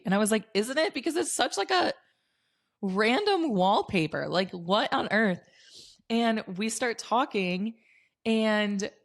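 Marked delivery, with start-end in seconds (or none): 0.5-5.4 high, excited gush about the wallpaper; bubbling over with amazement; excited disbelief. Retold or imitated. Telling the girl in the bathroom, excited and high.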